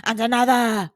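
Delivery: loud growled giant demand; growling giant. A narrator's reading. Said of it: "growled the giant".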